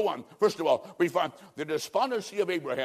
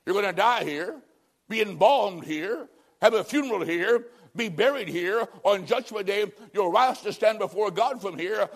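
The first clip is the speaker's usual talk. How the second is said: preaching; 3 semitones higher than usual. Acted. Preacher warning the Florida congregation, preaching.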